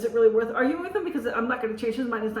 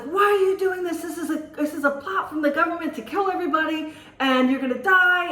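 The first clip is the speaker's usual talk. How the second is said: retold agitated scolding, higher pitched; mock tirade, pushed up in pitch; lit into me; 6 semitones higher than usual. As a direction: imitate a man laying into someone. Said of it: "he just lit into me".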